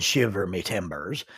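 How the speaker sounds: low pirate-accent catchphrase. Shown as a demonstration. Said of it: "the pirate accent".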